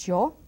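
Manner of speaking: yo with a hard, strong y; yo, y said strong, almost j. Shown as a demonstration. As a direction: punch the y in yo. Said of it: "I make it really strong".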